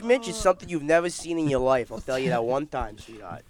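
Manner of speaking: hammed-up New York Italian; Italian-American accent. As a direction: play a mock Italian-American wise guy. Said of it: "You feel the Italian sausage".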